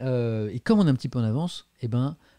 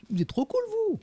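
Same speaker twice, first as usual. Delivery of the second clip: gushing thanks. Real, not acted.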